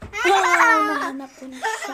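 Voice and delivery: excited laugh on finding. Real, not acted. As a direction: laugh out the discovery. Found the hider, laughing.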